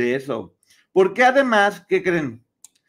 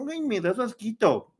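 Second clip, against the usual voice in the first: higher-pitched mock disgust; disgusted sneer; 4 semitones higher, 3 dB quieter than usual. Kate turning down Meghan's lipstick request, mock disgusted. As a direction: act out a snooty, grossed-out refusal. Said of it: "Kate le torció la jeta".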